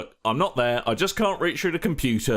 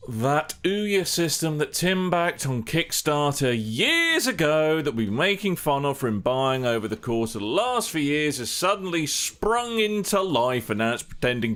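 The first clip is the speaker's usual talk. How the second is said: sarcastic. Acted. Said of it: "oozing with the sarcasm".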